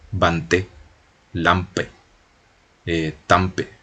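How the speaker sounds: "bante", "lampe", "tampe" con A nasal sin M marcada; vocal nasal francesa. Shown as a demonstration. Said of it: "no es una A y una M". (ejemplos de la A nasal francesa)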